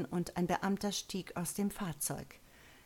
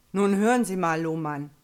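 ungehalten; 11 dB louder than usual. Acted. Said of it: "äußerst ungehalten".

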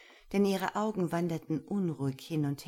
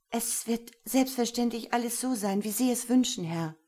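much higher, louder urgent voice; breathless plea; 7 semitones higher, 4 dB louder than usual. Acted. Lena begs Gero for strict training, high and urgent. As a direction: blurt it out wide-eyed.

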